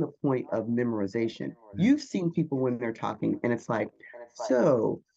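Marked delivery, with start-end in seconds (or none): 4.3-5.0 slow, stiff, memorized-sounding delivery; mock robot. Speaker mocking a memorized presenter, slow and robotic. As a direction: recite it like a wooden speaker going through memorized lines. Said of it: "this guy looks like a robot".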